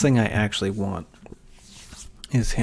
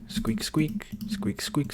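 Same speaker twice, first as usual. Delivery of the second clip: light, higher mock squeaks of the mouse; imitating mouse squeaks; 6 semitones higher, 3 dB quieter, slower than usual. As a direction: echo the squeaky mouse playfully, not fully voiced. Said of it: "all I can hear is squeak".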